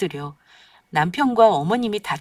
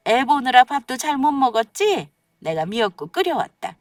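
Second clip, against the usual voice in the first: pushy cheery mother-in-law; 5 semitones higher, 3 dB louder than usual. Acted.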